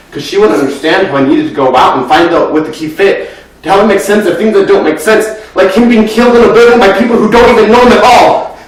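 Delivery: rising into a loud, high outpouring; agitated, mounting outburst; building distress. Acted. Acted monologue builds to an outburst.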